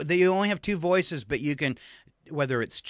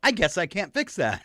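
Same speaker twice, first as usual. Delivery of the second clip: higher mock AI girl, giving up; snotty young assistant; 4 semitones higher than usual. Alexa gives up on third attempt, lightly mimicked snotty voice. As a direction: lightly imitate a snotty assistant admitting defeat. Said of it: "like a snotty twenty-something girl talking".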